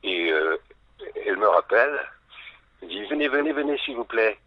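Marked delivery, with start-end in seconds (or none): 3.1-4.4 higher-pitched imitation of a director calling someone over; appel pressant imité. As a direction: call him over, imitating an insistent lady. Acts out director calling him over. (imitation d'un appel pressant, voix plus haute)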